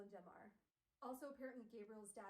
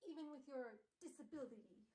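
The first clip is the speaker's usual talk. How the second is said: Gabriel Lightwood; 3 semitones higher than usual. Acted. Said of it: "Gabriel's like".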